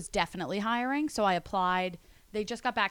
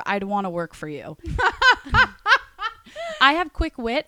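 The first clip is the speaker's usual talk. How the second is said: sing-song poem recital; reading a poem aloud. Pretend. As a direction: recite it like a rhyming card. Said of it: "Let's hear the poem".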